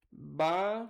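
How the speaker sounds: "Batom" split, a long rising "Ba", pause, then "tom"; syllable-by-syllable demo. Shown as a demonstration. Teacher testing the stressed syllable of "Batom", syllables split. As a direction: hold and lift the "Ba" of "Batom". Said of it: "é a sílaba tônica".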